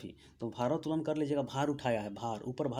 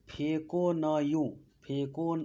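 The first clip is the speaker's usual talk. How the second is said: slow mnemonic; slower than usual. Shown as a demonstration. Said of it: "इस तरह याद कर लीजिएगा".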